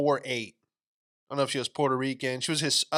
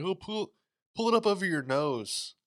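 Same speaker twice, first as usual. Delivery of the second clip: lightly voiced, higher-pitched attendant; mock flight attendant; 6 semitones higher than usual. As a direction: imitate a flight attendant giving a reminder. Mimicking a nagging flight attendant.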